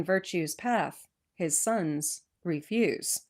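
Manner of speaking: put-on measured rhyming recitation of an old poem; poem reading. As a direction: read it like a Christmas verse to children. Reads old Christmas poem.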